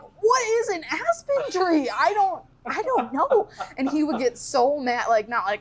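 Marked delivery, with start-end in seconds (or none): 0.0-3.5 higher, slow, helpless; mock whine to dad; whiny kid self. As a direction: plead like a lost kid. Kid can't find the tree.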